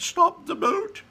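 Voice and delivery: high, loud, drawn-out shout; shouted order. Acted. Wonka ordering the Oompa Loompas, high slow shout. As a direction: shout the command across the boat. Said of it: "When Mister Wonka shouted".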